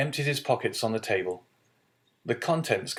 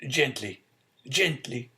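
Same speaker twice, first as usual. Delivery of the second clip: gently smiling; 4 semitones higher than usual. Acted. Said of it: "said the old man with a smile".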